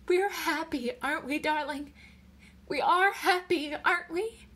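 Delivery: high, anxious insistence; desperate pleading. A narrator's reading. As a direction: beg for reassurance, pitched high. Wife begs husband for reassurance.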